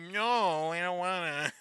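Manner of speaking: put-on reluctant whine; hammed-up little whine; mock whiny refusal. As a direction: imitate a sulky, dragging protest. Mimicking bloodied character's reluctant refusal.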